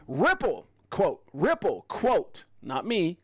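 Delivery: usual speaking voice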